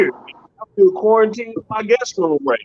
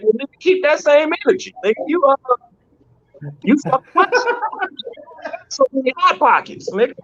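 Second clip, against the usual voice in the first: exasperated dad; 8 semitones higher than usual. Retold or imitated. Father lecturing son about food.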